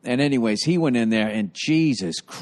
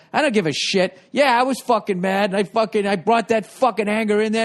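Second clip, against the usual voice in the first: imitating the cop; 6 semitones higher than usual. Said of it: "He's just like".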